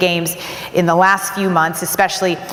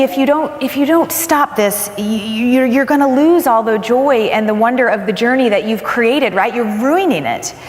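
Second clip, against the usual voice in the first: sister warning; 4 semitones higher than usual. Retold or imitated. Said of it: "she said to me".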